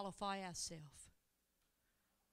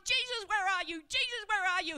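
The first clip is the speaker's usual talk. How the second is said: much louder and higher, searching cry; calling out; 9 semitones higher, 11 dB louder than usual. Pretend. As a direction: call out as if lost. Believer calling for Jesus.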